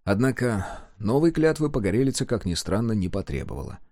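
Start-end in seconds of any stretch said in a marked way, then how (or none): none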